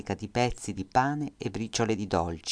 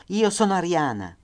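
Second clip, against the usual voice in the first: high, loud desperate cry; mother shouting in German to the guard; shouted in German; 9 semitones higher, 5 dB louder than usual. Acted. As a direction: call out to save your family. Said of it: "gridò in tedesco".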